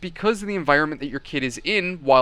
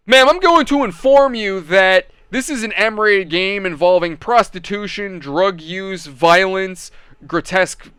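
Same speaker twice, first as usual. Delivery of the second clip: loud public announcement; 4 dB louder, slower than usual. Retold or imitated. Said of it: "out loud so other parents would hear me".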